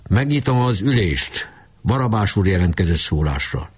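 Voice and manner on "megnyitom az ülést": formal, raised announcing voice; official tone. Acted. Kolnai opening the meeting in an official tone. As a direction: open the meeting like a chairman. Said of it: "hivatalos hangon szólt".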